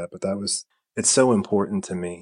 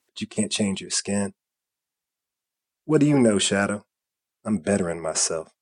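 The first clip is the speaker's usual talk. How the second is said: lightly voiced taunting Shadow; Shadow's voice; 2 semitones higher, 3 dB louder than usual. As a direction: read it as the mocking Shadow, a little louder. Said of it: "This is in the Shadow's voice".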